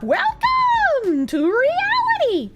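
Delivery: dramatic announcer. Acted. Dramatic welcome to chatter.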